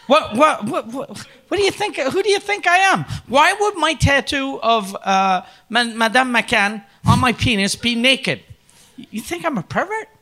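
high, stammering, affronted outburst; acted indignation. Boss defending his tattoo against pervert suspicion, indignant. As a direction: sputter in at a high pitch, offended.

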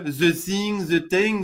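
"the thing" with a French z for th; French-accented English. Retold or imitated. Mocking a French coworker's English, French-accented "the thing". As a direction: mimic a Frenchman saying "ze sing". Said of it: "ils font des the".

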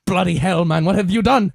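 high, loud British coach voice; British accent, loud; mock British accent. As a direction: coach bawling at his high player. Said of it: "accent britannique".

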